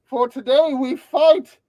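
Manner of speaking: rally the crew to fight; roaring rallying speech. Pretend.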